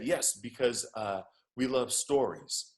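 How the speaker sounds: lightly imitated Nigerian accent; bad Nigerian accent. Uber driver confirming to his passenger, bad Nigerian accent. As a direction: answer in an amateur Nigerian accent. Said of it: "I'm doing a horrible Nigerian accent".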